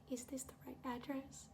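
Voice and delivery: timid, unvoiced whisper; very quiet. New driver hesitantly checking the address, whispering. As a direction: imitate a driver barely daring to ask, whispered. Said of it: "he's, like, so quiet".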